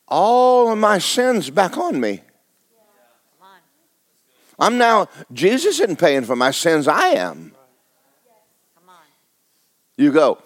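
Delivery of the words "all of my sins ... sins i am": rising preacher cry. Real, not acted.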